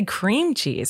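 "CREAM cheese", first word hit; imitated stress on cream. Host quotes husband's odd version, stress on cream. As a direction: copy him with "cream" punched. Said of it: "I don't think people say".

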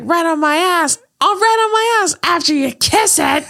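hammed-up movie retort; mock tough-guy retort. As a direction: snap it back, cracking up. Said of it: "he's like".

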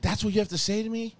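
put-on high, indignant teenage daughter voice; mock teen outrage. Daughter yelling back at her dad, high mock outrage. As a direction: squeak it out like an offended teen.

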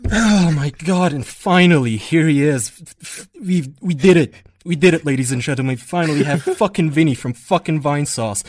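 triumphant announcement. Acted. Triumphant host announcing the guest.

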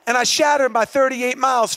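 normal talking voice

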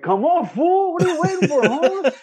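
very high, exaggerated Mexican cholo voice; cousin's cholo accent. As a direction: play a bank teller with a high cholo lilt. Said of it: "in that accent".

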